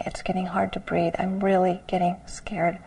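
quick, hushed and scared; frightened whisper. Retold or imitated. Quoting a frightened retreat student, hushed. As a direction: whisper it fast as panic rises.

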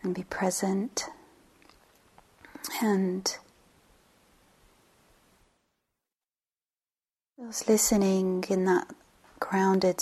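unhurried meditation guide, long pauses between phrases; guided meditation. Real, not acted. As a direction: settle listeners gently, leaving space after each phrase.

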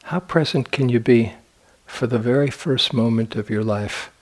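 unhurried phrases with long, spacious pauses; guided meditation. Acted. Meditation teacher guiding sitters to imagine being born, in guided meditation delivery. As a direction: lead them gently, leaving silence between phrases.

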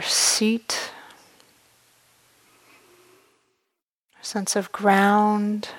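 calm meditation guidance with long, unhurried pauses; measured meditation voice, letting each phrase settle; guided meditation. Real, not acted. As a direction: guide them gently inward, leaving space after each phrase.

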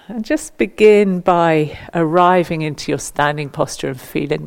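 measured meditation guidance with long pauses between instructions; guided meditation. Acted. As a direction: guide them gently into standing stillness, phrase by phrase. Leads standing body-awareness meditation.

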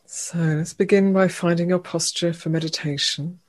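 unhurried meditation guide, long pauses between phrases; guided meditation. Real, not acted. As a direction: gently lead them into stillness, leaving room after each phrase. Leads a meditation.

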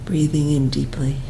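calm guidance, softening toward the end, long pauses; guided meditation. Real, not acted. Teacher asking students to feel the breath in the back, quiet meditation voice.

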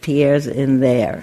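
slow, laughing line from the parents. Retold or imitated. Parents telling the lion where Pierre is, slow and laughing. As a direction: drag it out while laughing. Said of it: "And his parents say".

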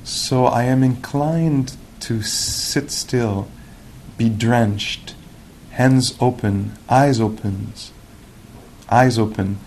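slow, measured poetry recital; unhurried reading of a contemplative poem. Acted. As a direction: let each phrase soak in, with long pauses. Reads the poem again.

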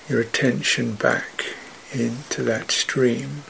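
soft, unhurried meditation guidance with long pauses; guided meditation. Real, not acted. Teacher guiding listeners' attention back to the heart, soft meditative voice. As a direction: let each phrase settle into silence.

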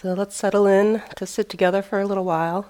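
measured meditation-teacher voice with long pauses; phrase by phrase, leaving space between instructions; guided meditation. Real, not acted. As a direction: guide them into the sitting posture, unhurried. Leads a seated meditation.

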